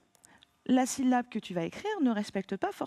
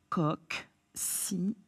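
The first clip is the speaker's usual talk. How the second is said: chuchoté lentement; 4 semitones lower, much slower than usual. Shown as a demonstration. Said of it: "épellation du mot".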